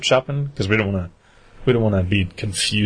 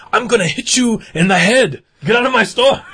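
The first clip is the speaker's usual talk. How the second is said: higher mock-angry shop clerk; 12 semitones higher than usual. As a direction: play the fed-up clerk throwing him out, higher. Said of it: "the guy at the counter was like".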